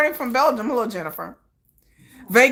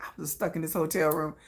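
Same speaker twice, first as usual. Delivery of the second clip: pouty; 7 semitones lower, 9 dB quieter than usual. Retold or imitated. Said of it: "the singer was so pouty"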